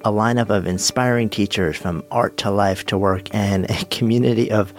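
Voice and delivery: upbeat podcast ad read, slightly lifted; sponsor read. Acted. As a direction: read the camp promo over music, polished and flowing. Reads sponsor promotion over music.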